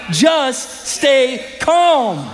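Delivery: stretched out very slowly; slow calm. Acted. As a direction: let every word linger, soothing. Preacher drawing out the verse.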